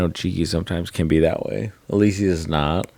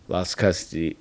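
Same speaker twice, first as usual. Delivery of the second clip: ordinary talk, nothing marked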